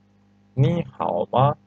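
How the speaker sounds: slowly, each syllable clear; teacher modelling the tones slowly; slow model reading. Shown as a demonstration. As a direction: read it slowly for the class to copy. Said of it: "because we have rules".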